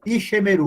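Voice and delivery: "Ishemeru" with an audible e after sh; sounded Sheva. Shown as a demonstration. Teacher showing a wrong reading, "Ishemeru" with the extra e sounded. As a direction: say "Ishemeru" in four syllables, i-she-me-ru. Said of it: "se fosse sonoro, você leria".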